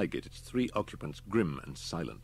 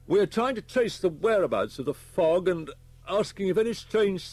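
high, loud, emphatic officer voice; policeman giving a grim report; 11 semitones higher, 7 dB louder than usual. A narrator's reading. Policeman briefs Homan on the schoolboys, high and emphatic. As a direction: report it forcefully, pitched well up.

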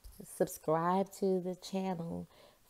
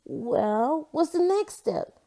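much higher, louder eager question; eager Jasper; 9 semitones higher, 5 dB louder, slower than usual. A narrator's reading. Jasper urging Margaret on, higher and eager. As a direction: bounce up on next step. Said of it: "asked Jasper".

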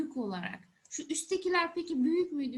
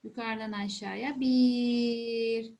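slow counting demo; 3 semitones lower, much slower than usual. Shown as a demonstration. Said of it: "shows how to write the letter".

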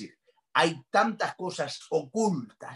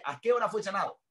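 raised pitch without the loudness; repeated acted question; 5 semitones higher, 3 dB quieter, faster than usual. Preacher repeats the centurion's question for listeners, more contained. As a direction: ask it high but held back.

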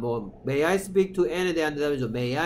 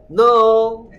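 loud no with a laugh, higher; laughing blunt refusal; rude refusal; 6 semitones higher, 12 dB louder than usual. Shown as a demonstration. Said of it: "너무 화가 나서 복수할지도 몰라". (웃으며 크게 거절)

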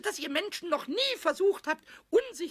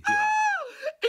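much higher, loud gleeful exclamation; triumphant cry; 5 dB louder than usual. Acted. Goblin proud of blowing out the match, gleeful. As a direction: crow with delight.

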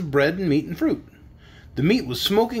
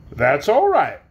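mildly friendly man's voice; pleasant; 5 dB louder, slower than usual. A narrator's reading. Man welcoming the visitors, pleasant. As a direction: reassure with a touch of kindness. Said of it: "more pleasantly than before".

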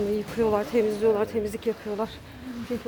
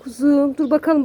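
sevgiyle, yüksek sesle kediye seslen; kediye tatlı ses; 3 semitones higher, 4 dB louder than usual. Real, not acted. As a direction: anne şefkatiyle kedi sevme. (kediye seslenen sahibi, şefkatli ve tiz)

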